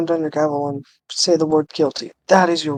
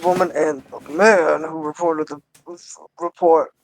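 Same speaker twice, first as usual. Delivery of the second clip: put-on drunk voice; 4 dB louder than usual. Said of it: "not a drunk voice".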